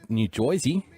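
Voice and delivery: New Jersey said as "Joisey", vowel bent to oy; New Jersey spoken as "Joisey" with a rising tune; Joisey pronunciation. Shown as a demonstration. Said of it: "is that how you say New Jersey?".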